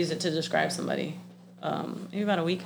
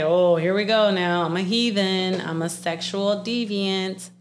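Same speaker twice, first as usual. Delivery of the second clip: mock proclamation; 5 dB louder, slower than usual. Mock dramatic self-announcement, retold.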